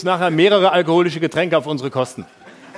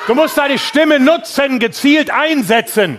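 barked drill commands; 4 semitones higher, slower than usual. Acted. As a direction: bark it like a drill sergeant. Coaching audience member to perform.

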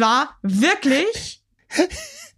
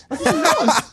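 a high, startled what's wrong; high concerned question. Real, not acted. Mother asks her suddenly upset daughter, high and startled.

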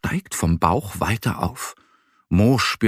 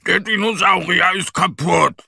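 high-pitched howl of dismay from a little bear; wailing; 9 semitones higher, 3 dB louder than usual. A narrator's reading. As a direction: wail it high in distress. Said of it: "Der kleine Bär jault".

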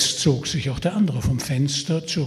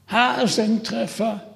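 hoarse shout; 8 semitones higher than usual. Acted. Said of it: "schrie er mit heiserer Stimme hinaus".

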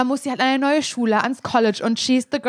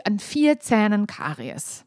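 slow, quieter and weirdly proud; almost proud; 3 dB quieter, slower than usual. Real, not acted. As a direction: say it as if it were a trophy. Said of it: "Sag das nicht so, als würdest du dich damit schmücken". (langsam, fast stolz verkündet)

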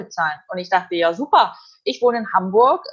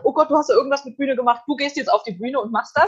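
fast, higher panicked boss voice; flustered organizer; 4 semitones higher than usual. Retold or imitated. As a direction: rush it like a stressed organizer. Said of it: "hat dann der Veranstalter gesagt".

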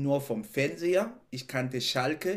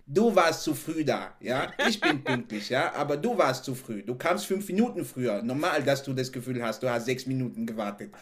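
mock telling off. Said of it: "Und da denke ich".

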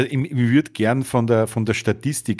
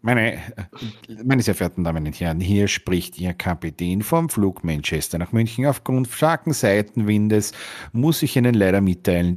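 lower, formal captain announcement; pilot cockpit headset; 3 semitones lower than usual. Pretend. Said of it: "Du, du sagst".

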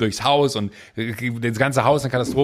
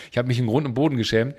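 ordinary delivery

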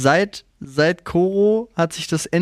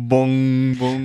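bell imitation; 5 semitones lower than usual. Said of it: "Ich hab eine große Glocke".

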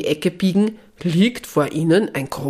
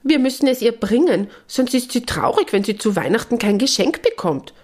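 high little bird voice; 6 semitones higher than usual. Acted.

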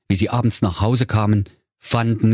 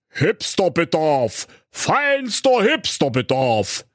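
verstellte tiefe Stimme; 8 semitones higher, slower than usual. A narrator's reading. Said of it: "mit tiefer Stimme".

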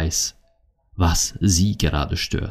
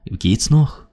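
indignant scolding; 8 semitones higher than usual. Acted. Acted scolding of one's past self.

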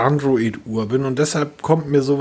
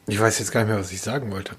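trailing off; 3 semitones lower, 5 dB quieter, faster than usual. Real, not acted. Forgets what he wanted to say.

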